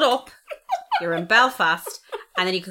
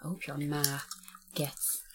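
thick Belfast caller; 2 semitones lower, 4 dB quieter, slower than usual. Retold or imitated. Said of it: "he could be saying to me on the phone".

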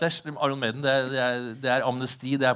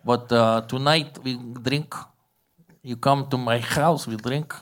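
put-on slow, heavily accented invitation; Bulgarian bagpipe maker; slower than usual. Bagpipe maker invites his customer home to drink, accented English. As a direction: play the foreign craftsman, halting broken English.

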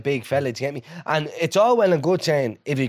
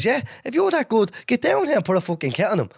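higher-pitched gruff manager voice; mock Harry Redknapp; 7 semitones higher than usual. Retelling the manager daring a fan, mock gruff. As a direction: mimic the boss daring him to play. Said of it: "And Harry Redknapp goes".

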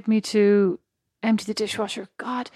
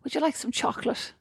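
creepy offer voice; 7 dB quieter than usual. Acted. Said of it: "not with that voice".

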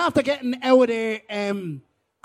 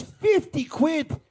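very slow, higher, stretched words; drawn-out disbelief; 5 semitones higher, much slower than usual. Acted. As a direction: draw out both words in mock amazement. Buyer in disbelief at the price.

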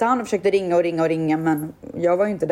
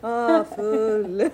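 mimicking through laughter; 2 semitones higher than usual. Friend mimics the fake drunk.

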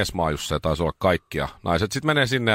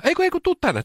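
high sing-song coaxing call; mock sweet calling voice. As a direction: lure them over sweetly, way up high. Coaxing someone to the sauna.

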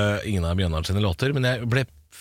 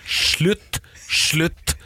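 mock scolding; 6 semitones higher, much slower than usual. Mock rant at handball fans.

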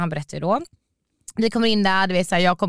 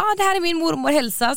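higher mock date introducing his grandmother; lightly voiced date, higher and cheerful; imitating the date; 10 semitones higher than usual. Date introducing his grandmother to her, mock higher voice. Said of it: "Han bara".

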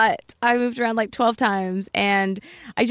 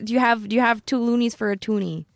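Canadian accent. Shown as a demonstration. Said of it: "Can you do a Canadian accent?".

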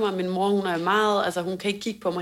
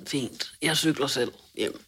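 huffy; 4 semitones lower, 4 dB quieter, slower than usual. Retold or imitated. Retold huffy reply when rebuffed.

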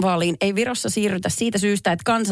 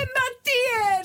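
very high, long-drawn wail; stumped contestant's high-pitched despair; helpless wail; slower than usual. Real, not acted. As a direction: wail it out, stretching every word. Stumped contestant pressed for answers.

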